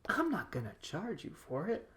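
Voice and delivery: sly, deliberate knowing delivery; insinuating character impression; talking in winks. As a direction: imitate a winking deal-maker. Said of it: "talking in winks the whole time".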